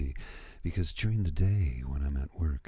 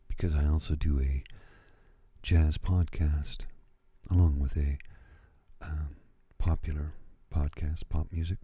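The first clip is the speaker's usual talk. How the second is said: jazz voice. Shown as a demonstration. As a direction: lay it on like a late-night jazz DJ. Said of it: "And the jazz voice is this".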